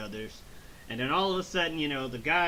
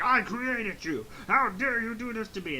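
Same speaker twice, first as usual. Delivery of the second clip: mock outrage; 6 semitones higher than usual. Acts out Doctor Gero's outrage.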